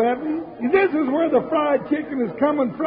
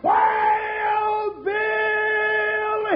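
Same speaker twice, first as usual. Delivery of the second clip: long, stretched, rising call; drawn-out shout; 6 semitones higher, much slower than usual. Acted. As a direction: holler the name out long and high. Show's signature closing call.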